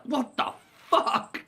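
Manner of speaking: high, slow drawn-out disgust; disgusted shock. Retold or imitated. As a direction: recoil in disgust, slowly. Santa gets sneezed on.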